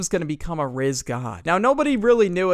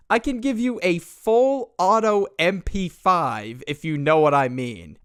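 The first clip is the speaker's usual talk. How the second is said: mocking creep. Mocking retold creepy pickup line.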